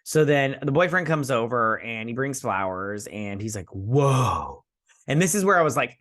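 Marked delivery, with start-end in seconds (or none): 3.7-4.6 mock love-struck "whoa"; love-struck boy. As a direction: imitate a boy awestruck by his date. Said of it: "this love-struck boy".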